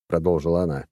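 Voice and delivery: usual speaking voice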